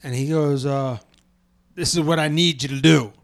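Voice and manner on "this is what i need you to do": lightly drawled Southern instruction; mild imitated Southern accent; put-on Southern accent. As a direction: quote him with a touch of Southern. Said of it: "He doesn't have a Southern accent".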